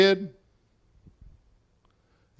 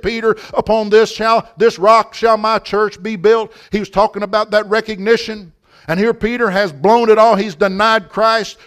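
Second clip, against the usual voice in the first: driving, raised preacher's storytelling; fervent preaching; 4 semitones higher, 6 dB louder than usual. Real, not acted. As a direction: press on through the story with fervour.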